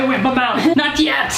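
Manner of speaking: surprised yelp. Real, not acted. Yeast foam erupting.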